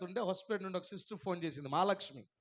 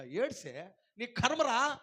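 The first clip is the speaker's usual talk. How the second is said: mock harsh scolding; 4 semitones higher than usual. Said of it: "ఏమంటాడు తెలుసా".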